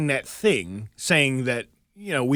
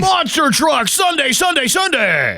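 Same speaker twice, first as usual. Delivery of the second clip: booming high announcer shout; monster truck ad; 9 dB louder than usual. Pretend. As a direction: yell it like a hyped arena promo.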